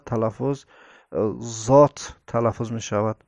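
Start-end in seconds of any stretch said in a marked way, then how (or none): 1.4-2.2 "زات" with a heavy z, tongue on the upper palate; emphatic Z. Shown as a demonstration. Teacher demonstrating the Arabic letter, heavy "زات".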